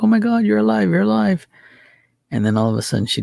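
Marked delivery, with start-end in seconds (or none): 0.0-1.5 high-pitched, frantic disbelief, retold; mock frantic exclamation, pitched very high; freaking out. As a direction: imitate someone crying out in shock, voice jumping way up. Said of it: "starts freaking out, crying".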